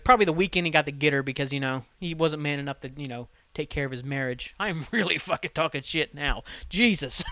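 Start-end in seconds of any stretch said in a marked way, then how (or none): 4.6-7.2 laughing. Real, not acted. Cracks up at own rant.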